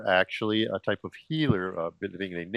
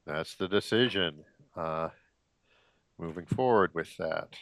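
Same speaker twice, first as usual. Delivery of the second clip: short of breath, winded; 2 semitones lower than usual. Real, not acted. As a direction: speak with little air left. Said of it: "a little out of breath".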